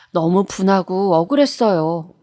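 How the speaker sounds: ordinary delivery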